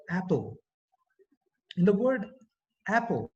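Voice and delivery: APPLE with an open short 'a' as in cat; short a sound. Shown as a demonstration. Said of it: "the first sound is a".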